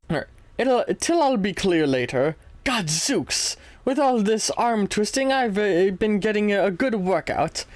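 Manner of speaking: put-on light posh British accent, chatty; understated posh British reading. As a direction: keep the breezy posh English letter voice going. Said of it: "can you do a British accent?".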